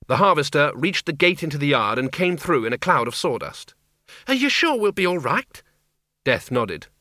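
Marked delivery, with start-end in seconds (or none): 4.3-5.6 put-on high, anxious old woman voice; high worried old woman. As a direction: ask high and uneasy. Miss Flitworth worries.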